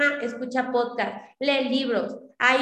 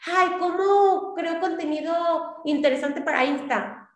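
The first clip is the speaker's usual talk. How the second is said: mock search question; 4 semitones higher than usual. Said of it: "puedes buscar".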